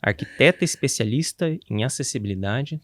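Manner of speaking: put-on light Italian accent. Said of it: "vou fazer com sotaque italiano".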